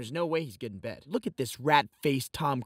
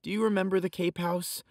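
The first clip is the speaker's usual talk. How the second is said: poem recital; 3 semitones higher than usual. Acted. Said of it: "This is a poem I wrote for you".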